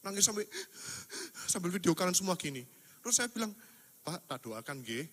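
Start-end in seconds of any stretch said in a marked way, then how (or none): 4.0-5.1 gentle offer. Retold or imitated. Gently asking to pray for patient.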